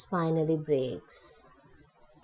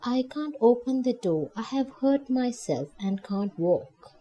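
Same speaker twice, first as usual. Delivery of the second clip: lightly voiced frail old woman; a hint of an old lady's quaver, pleading; 5 semitones higher than usual. Injured old woman answers Nancy through the door, lightly quavering. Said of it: "the quavering voice replied".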